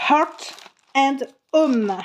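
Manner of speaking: English title in a strong French accent. Real, not acted. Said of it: "Pardon pour mon accent". (anglais avec l'accent français)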